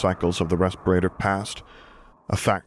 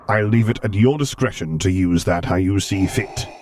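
cold, measured imperial authority; Darth Vader voice; 2 semitones higher, 5 dB louder than usual. Acted.

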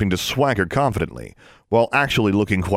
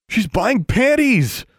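slow gleeful taunt; 13 semitones higher, 3 dB louder, much slower than usual. A narrator's reading. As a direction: savour the teasing, mocking. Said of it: "someone said gleefully".

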